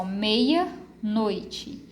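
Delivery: meia-noite, slowly split so the A of meia stands alone; sílabas separadas. Shown as a demonstration. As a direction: draw out "meia" with its own final A. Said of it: "ele vai ter um som muito independente". (meia-noite devagar, com o A de meia bem separado)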